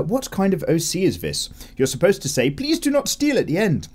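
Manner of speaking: squeaky teasing voice; high mock voice. Acted viewer comment, high voice.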